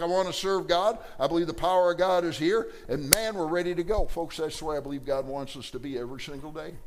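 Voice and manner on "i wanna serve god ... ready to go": louder, eager declaration; fired-up believer. Pretend. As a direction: show you're ready to charge. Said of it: "it's like".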